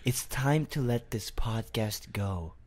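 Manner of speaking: slow, soft, gently imitated girlfriend. Girlfriend asking to end the podcast, gently imitated. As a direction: let them down slowly and softly, mock-tenderly. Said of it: "she was going to say".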